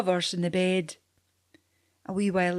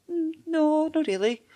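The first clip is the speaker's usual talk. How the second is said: put-on little girl voice; 9 semitones higher than usual. Girl answers.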